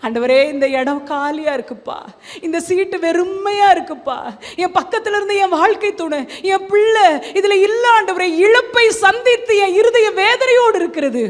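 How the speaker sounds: mild mock plea that builds in intensity; acted lament. Bereaved believer crying out to Jesus, pleading. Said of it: "ஏசப்பாவை அந்த இடத்துல கூப்பிடுங்க".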